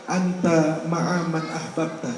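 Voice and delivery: low, slow, hushed solemn answer; lightly voiced grave reply, drawn out; solemn prophet's reply. Prophet answers the Bedouin, low slow and solemn.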